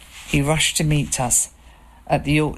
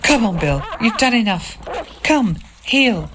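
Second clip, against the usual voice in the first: calling a dog back, raised voice; 7 semitones higher, 3 dB louder than usual. A narrator's reading. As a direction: call him off firmly. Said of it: "called out to him".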